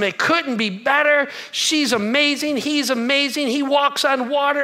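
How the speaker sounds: bright, gushing rave about the marriage; gushing newlywed. Retold or imitated. Pastor voicing newlyweds raving about each other, gushing. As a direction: sell it like newlyweds in love.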